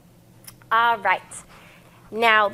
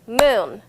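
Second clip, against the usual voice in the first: moon said as one clear clapped beat, a bit louder; clapped syllables; 4 dB louder than usual. Shown as a demonstration. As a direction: clap out moon as a single beat.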